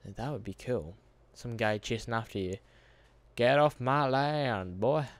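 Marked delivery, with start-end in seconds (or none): 3.4-5.1 slow hillbilly threat, lightly voiced; slow crazed farmer threat, lightly done; crazy guy voice. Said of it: "supposed to be a crazy guy accent".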